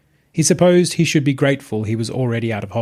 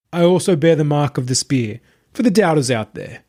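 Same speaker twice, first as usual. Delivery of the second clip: higher, calm, self-satisfied preacher voice; smug self-proclaimed messiah; 4 semitones higher, 3 dB louder than usual. Acted. Possessed streamer addressing his entourage, smug and serene. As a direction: announce your divinity like a smooth cult leader. Marius shows his wounds.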